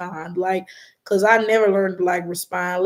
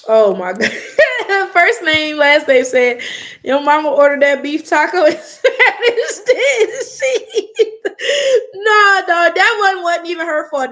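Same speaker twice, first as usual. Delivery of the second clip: loud, high laughter through the words; cracking up at a comment; laughing hard; 7 semitones higher, 8 dB louder than usual. Real, not acted. Reading a viewer's comment about her mom, laughing loudly.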